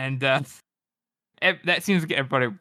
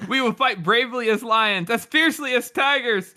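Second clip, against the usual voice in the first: warming up; 5 semitones higher than usual. Acted. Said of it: "He is warming to his work now".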